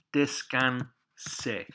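descansé drawn out slowly; teacher slowly modelling descansé; slow word model. Shown as a demonstration. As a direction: say descansé slowly, each syllable clear for learners.

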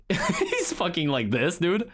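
laughing through the words; giggling while describing. Real, not acted.

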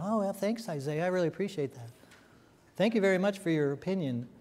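a hint of a dismissive king thanking politely; mock king reply. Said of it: "the king going".

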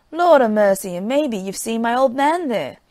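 a loud, eager gasp of amazement; startled exclaim. Acted. Wife hears the soldier came from Paradise, loudly amazed. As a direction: blurt it out, astonished and eager.

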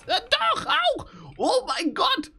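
high, loud startled yelp; shocked shriek. Real, not acted. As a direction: shriek when the creature attacks. Vom Lystro überraschend angegriffen. (hoher, lauter Schreckensschrei)

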